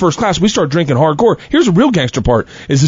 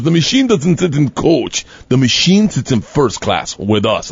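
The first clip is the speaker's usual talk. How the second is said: gangster decree; 2 semitones lower, slower than usual. Retold or imitated. Igor's retold decree.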